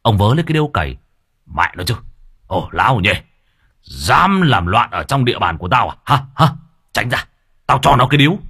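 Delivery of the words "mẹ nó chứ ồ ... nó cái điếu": flying into a rage. Acted. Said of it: "ông Hinh liền ba máu sáu cơn".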